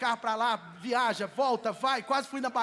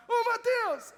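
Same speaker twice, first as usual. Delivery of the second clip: high, loud call across the store; man calling out Mateus across a supermarket, loud and high; calling from afar; 12 semitones higher, 4 dB louder, slower than usual. Retold or imitated. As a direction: shout his name from far away. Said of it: "lá de longe o cara vira e fala".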